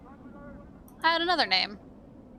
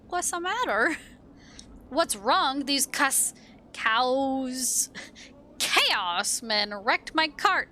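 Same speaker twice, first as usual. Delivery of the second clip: a lightly voiced aggrieved hive dweller; gruff NPC voice. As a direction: read the townsfolk complaint in character. Reads NPC dialogue aloud.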